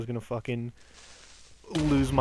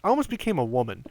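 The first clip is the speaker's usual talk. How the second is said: deadpan; 3 semitones higher than usual. Retold or imitated. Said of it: "looked him dead in the eyes and said".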